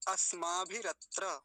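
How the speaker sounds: अस्माभिरत्र slow, as asmaa-bhi-rat-ra; separated r and tra. Shown as a demonstration. Teacher modelling for students, slow separated sounds. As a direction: keep r and tra apart in अस्माभिरत्र. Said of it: "रेफ अलग है और त्र अलग है".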